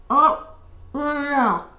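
up and down drawn out very slowly; coaching a move, slow and deliberate; slow demo. Shown as a demonstration. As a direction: spell it out slowly. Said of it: "You go".

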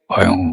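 ভয়ং rolled from ভ into অং without a break; rolling glide. Shown as a demonstration. Teacher shows the syllables rolling together, rolling glide. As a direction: slide smoothly through ভয়ং. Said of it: "এখানে একটা mid আছে".

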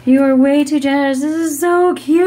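emphatic excited thanks. Real, not acted. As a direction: say it again like you really mean it.

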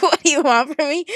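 lightly imitating his own scream; a half-hearted replay of the yell; mock scream. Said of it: "the look on my family's face".

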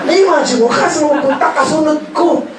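high-pitched laughing disbelief. Real, not acted. Laughing as he tells the audience he was followed everywhere. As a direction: squeal it out through laughter.

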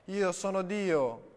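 high, loud, slow proclamation; crazed boy shouting before Prabhupada. A narrator's reading. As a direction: yell it like a mad prophet.

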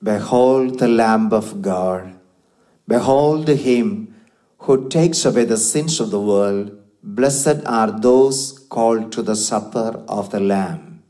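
solemn liturgical prayer voice. Acted. Priest elevates the host.

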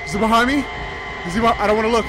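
frightened and too scared to look; loud scared voice. Real, not acted. Scared of monster behind.

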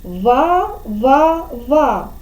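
"Ва, ва, ва" as separate beats; reading out syllables. Shown as a demonstration. Teacher giving the game's syllable, "Ва, ва, ва" one by one. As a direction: repeat "Ва, ва, ва" evenly with gaps. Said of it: "читати с-, склади, починати".

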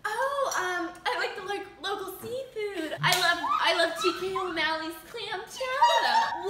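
high mock airy voice; a hint of a ditzy sister; mocking Deborah. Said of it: "She goes".

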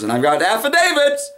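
high, proud, triumphant list; hammed-up boastful lawyer; mock Giuliani. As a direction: brag each word like a closing argument. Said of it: "He goes".

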